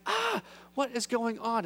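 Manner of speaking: high outburst, then slow bewildered words; exasperated mock panic; acted freak-out. Thomas confused about where Jesus is going, freaking out. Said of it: "That's what Thomas is feeling".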